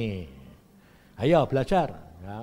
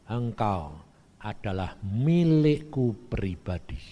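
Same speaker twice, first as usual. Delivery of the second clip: gentle voice of God; 9 semitones lower, slower than usual. Retold or imitated. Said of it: "Tuhan bilang gini".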